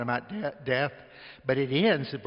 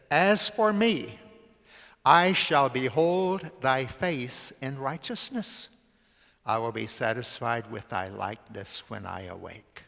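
solemn slow scripture quote; slower than usual. Acted. Quoting Psalm 17 slowly.

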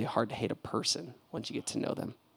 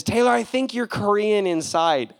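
higher, louder quoted friend; lightly voiced guard, louder; imitating the guard; 10 semitones higher, 8 dB louder than usual. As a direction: play the guard's earnest compliment. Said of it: "he says".

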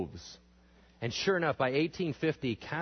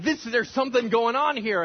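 awed realization; 10 semitones higher, 7 dB louder than usual. Retold or imitated. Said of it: "starts crying when he's preaching".

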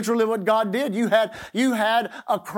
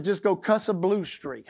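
Texas saying. Retold or imitated. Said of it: "so they said it like this".

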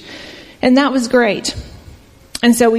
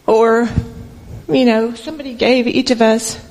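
emotional; 2 semitones higher than usual. Real, not acted. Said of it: "this is probably where I get emotional".

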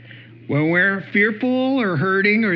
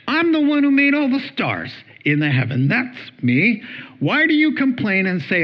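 raised, emphatic self-declaration; acted divine rebuke, pitched up; God's challenge; 6 semitones higher than usual. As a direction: challenge them as an indignant God. Voices God challenging his people.

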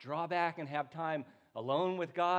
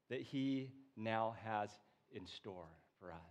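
quote read aloud. Retold or imitated. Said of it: "he said".

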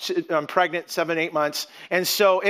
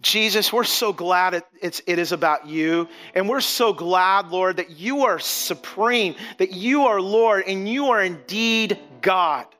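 closing prayer. Acted. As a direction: pray sincerely for the congregation at the close.

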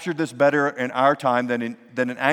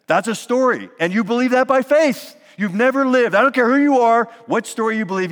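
rising, louder, higher preaching build; forceful preaching; 8 semitones higher, 5 dB louder than usual. Acted. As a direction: drive the point home from the pulpit.

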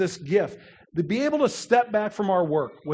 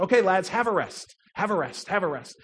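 lightly put-on British coach accent; attempted British accent. Coach ending a drill for his players, mild mock British accent. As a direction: try a modest British accent, easing off through the repeats. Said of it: "in this wonderful British accent".

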